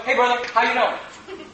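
slow, soft, laughing greeting; softly amused hello; Jesus greeting. Shown as a demonstration. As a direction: greet him gently with a smile. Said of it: "Would anybody think it's weird for me to go".

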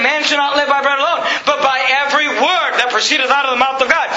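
"word" stressed within an insistent quotation; emphasis on the words. Shown as a demonstration. Preacher quoting scripture to prove every word matters, emphatic. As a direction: drive home "word" as the key. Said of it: "notice the emphasis on the words".

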